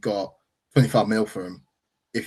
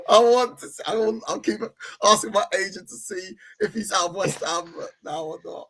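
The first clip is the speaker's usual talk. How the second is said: high put-on voice as the pleading player; lightly voiced footballer begging to leave; mock Vinicius; 9 semitones higher than usual.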